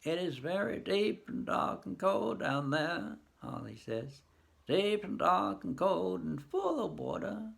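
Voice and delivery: put-on slow, hushed old farmer's lament; lightly voiced grieving old man. Harley peering down the well, slow and grieving. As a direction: mourn slowly over the dark water.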